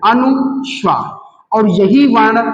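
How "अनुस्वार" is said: slow term repeat. Shown as a demonstration. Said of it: "क्या कहते हैं?".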